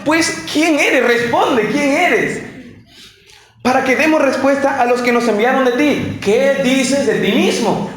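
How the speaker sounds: pressing, insistent interrogation, slow on quién eres; a touch of impatient priests demanding an answer; demanding questioners. Acted. Envoys from Jerusalem press John, insistently demanding.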